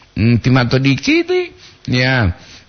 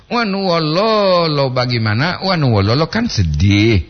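ordinary talk, nothing marked

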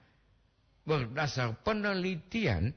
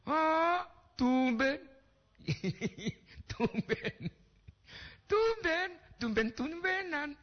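high, teasing surprise; surprised tumben; 13 semitones higher, slower than usual. Real, not acted. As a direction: squeal it out in mock amazement. Kaget dan menggoda pendengar. (kaget menggoda dengan suara tinggi)

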